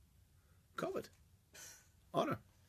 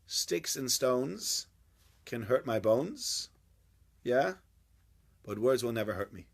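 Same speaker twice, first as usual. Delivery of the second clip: recited adage slowly; 3 semitones lower than usual. Retold or imitated. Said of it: "adage that people say".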